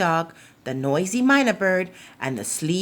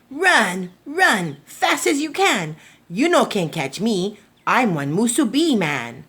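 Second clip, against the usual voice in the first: cheeky taunt; 2 semitones higher than usual. Acted. Musubi man taunting his chasers, cheeky singsong. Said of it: "just laughed and said".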